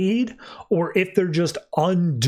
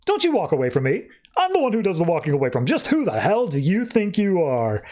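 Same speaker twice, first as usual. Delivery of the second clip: indignant outburst, higher by the end; mock indignant; 4 semitones higher than usual. Phantom Stranger as Swamp Thing walks off, mock indignant. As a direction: challenge him as if deeply affronted.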